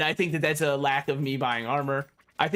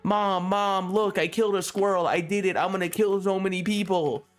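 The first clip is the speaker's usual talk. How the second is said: lightly voiced boasting child, a bit higher; excited kid; 4 semitones higher than usual. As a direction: show off to mom like an eager kid. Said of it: "he'd parade around the house going".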